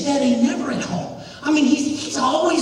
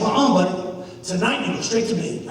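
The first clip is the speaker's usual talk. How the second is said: lightly voiced father, pitched lower; low, firm dad telling his boy no; 6 semitones lower, much faster than usual. Dad sends his son to bed, lightly voiced father. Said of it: "And Daddy said".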